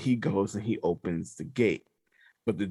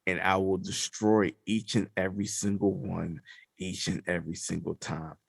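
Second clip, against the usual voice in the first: lightly voiced solemn deity, lower; measured decree with weighty pauses; All Father's voice; 4 semitones lower, 3 dB quieter than usual. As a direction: let it sink lower toward the end. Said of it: "he said the All Father".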